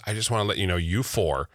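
low, softened retold compliment; sweet, earnest fan. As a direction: quietly confide the praise. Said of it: "she was so sweet, and she was so kind".

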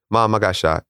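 steady, even report of being shot; very calm. Retold or imitated. Son calmly telling mom he got shot, very calm. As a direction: keep it level and unbothered. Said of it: "but I'm very calmly".

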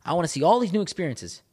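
high-pitched, insistent resolve; worked-up, hungry self-talk; fired-up determination. Retold or imitated. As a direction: list each ambition with driven urgency. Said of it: "I'm like".

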